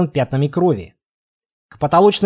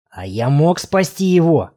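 slow hissing vampire voice; hissing feral vampire. Acted. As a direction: hiss it slowly like a cornered vampire. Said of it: "зашипел вампир".

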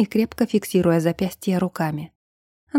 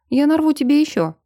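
promising; 7 semitones higher than usual. A narrator's reading. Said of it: "пообещал Брун".

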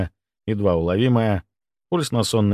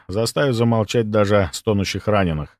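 ordinary delivery

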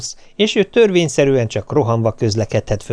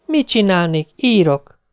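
higher, tense and irritable answer; very nervous; 7 semitones higher than usual. Retold or imitated. Wife answers husband's call, higher, tense and irritable. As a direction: snap back, on edge. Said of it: "Roppant ideges".

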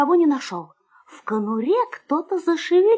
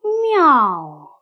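drawn-out falling meow; voiced cat meow; 3 semitones lower than usual. A narrator's reading. Someone unseen wakes the sleeping puppy, drawn-out meow. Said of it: "как кто-то сказал".

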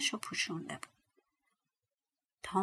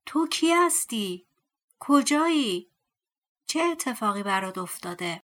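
calling out loud; 4 dB louder than usual. Acted. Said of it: "با صدای بلند فریاد زد".

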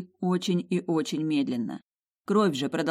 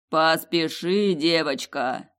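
booming ancient voice; 4 dB louder, much slower than usual. Acted. Voice of the ruby heart.

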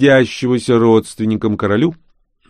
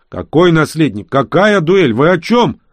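bewildered outburst; 8 semitones higher, 6 dB louder than usual. A narrator's reading. Confused hero demands answers.

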